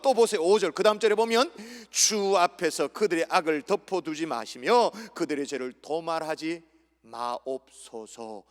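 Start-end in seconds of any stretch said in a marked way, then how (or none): 1.9-8.4 slow right down, praying gravely; solemn prayer. Acted. Preacher prays Nehemiah's words before the Lord, solemn slowing prayer. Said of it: "기도하고 있는 거죠".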